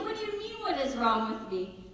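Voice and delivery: high-pitched start, settling into mock-calm mom; put-on calm. Mom answers her puzzled son, exaggeratedly calm. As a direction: play a mother being deliberately calm. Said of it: "so I'm being really calm".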